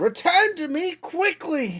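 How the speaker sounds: shrill, very high screechy call. The father yells to his slimes to come back, screechy yell. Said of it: "yells to the slimes in a screechy, lithid voice".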